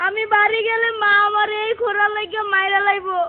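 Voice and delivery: crying pupil's monotone lament; tearful wailing. Acted. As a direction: whine it out on one sustained tone. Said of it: "তো কি নিয়ে কান্দস".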